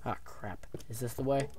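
soft whispered aside; whispering. Real, not acted. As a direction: whisper so the mob won't hear. Whispers near skeleton.

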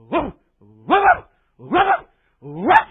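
high yapping woof woofs; playful high barking dog impression. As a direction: bark like an excited dog. Preacher imitates a barking dog.

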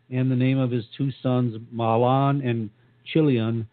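speaking with a dry mouth; parched, sticky-mouthed reading. Real, not acted. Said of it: "I have no idea why my mouth is so dry".

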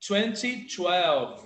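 slow teaching demo. Shown as a demonstration. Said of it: "fala a dezena".

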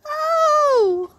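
sudden loud exclamation. Shown as a demonstration. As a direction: belt out a bright oh.

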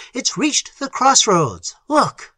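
high, slow, drawn-out shout; urgent shout. A narrator's reading. Algernon pointing out the creature at the crossroads, shouting. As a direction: call it out high, stretching the words. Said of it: "shouted Algernon".

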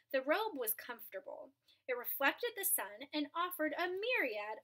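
storybook narration for a class; read-aloud storyteller voice; reading to children. A narrator's reading. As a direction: tell the tale to the children. Reads a picture book aloud.

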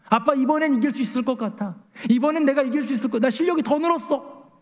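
put-on high, eager kid bragging to dad; a light imitation of a bragging boy; boastful son. Pastor voices his boasting son.

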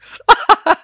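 loud squealing laugh; high burst of laughter. Real, not acted. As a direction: crack up at the crash.

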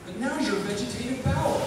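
poem recited in a cowboy voice; cowboy drawl. Acted. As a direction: recite it like a cowpoke at the campfire.

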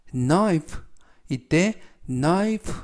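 "knife" starting on an n sound; "knife" said clearly as "nife"; silent K. Shown as a demonstration. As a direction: model "knife" with the K left silent. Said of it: "앞에 있는 K는 묵음이라서".

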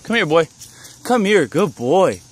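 high coaxing call to a dog. Real, not acted. Calling a found dog.

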